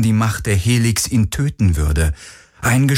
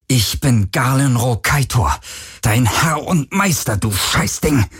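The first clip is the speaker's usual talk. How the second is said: through gritted teeth; 3 semitones higher than usual. Acted. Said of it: "presste er mit zusammengebissenen Zähnen hervor".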